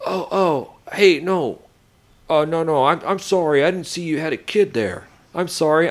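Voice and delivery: high, gushing mock apology; flustered apology. Neighbor apologizing to the dad once she sees his kid. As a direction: backpedal fast, embarrassed.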